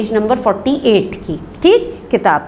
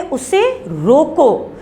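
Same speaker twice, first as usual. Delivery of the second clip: slow, high "उसे रोको", stretched and set apart; pause after रोको; 4 semitones higher, much slower than usual. Shown as a demonstration. Teacher going back to the first sentence, pause after रोको. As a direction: stretch रोको and stop there. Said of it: "ठहरना है कुछ देर".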